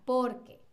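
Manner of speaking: "Por qué" run together as one word, stress on "Por"; porque átono. Shown as a demonstration. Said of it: "fíjense en cómo estoy pronunciando". ("Por qué" como una sola palabra, sin acento final)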